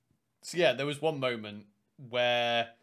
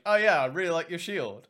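sly compliment; 5 semitones higher, 7 dB louder than usual. Retold or imitated. Praising enemy shield teasingly.

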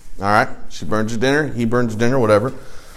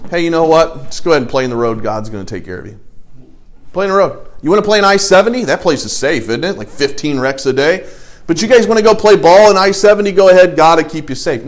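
mock-cheerful, louder and higher dare to the kids; sarcastic parent; 4 semitones higher, 5 dB louder than usual. Father to kids about playing on I seventy, sarcastic loud mock encouragement. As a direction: ham up the foolish go-ahead. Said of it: "It's like me saying to my kids".

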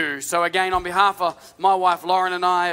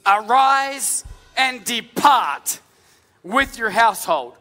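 solemn prophet; 2 semitones higher, slower than usual. Acted. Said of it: "Now Elisha had said".

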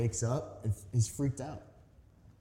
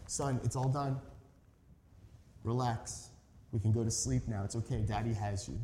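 put-on soft, reassuring hush to a scared child; calm him back to sleep; soothing father; 5 dB quieter than usual. Father comforting his frightened son at night, soft and soothing. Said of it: "So I have to tell him".

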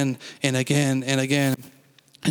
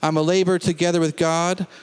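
faith confession. Acted. Pastor leading the standing congregation in declarations, measured and firm. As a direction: proclaim every line as settled truth.

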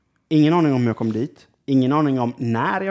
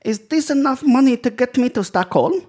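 high, broken-English woman's voice; the stranded woman asks if fifty crowns will do; imitating the Polish woman; 12 semitones higher, 4 dB louder than usual. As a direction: play her pleading in broken English, pitched way up. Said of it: "och bara".

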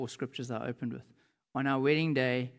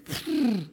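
mock burst of bawling; imitated bawling; 7 semitones higher, 5 dB louder than usual. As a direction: imitate a big man bursting into tears. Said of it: "the oak just starts bawling".

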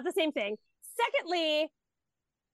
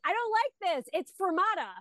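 lightly voiced little girl, higher; a hint of a kid insisting; child's voice; 8 semitones higher than usual. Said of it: "And so she's like".

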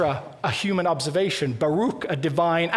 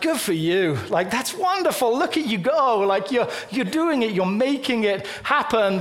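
higher, bright encouraging praise; cheering someone on; 3 semitones higher than usual. Retold or imitated. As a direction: pump them up like a proud friend.

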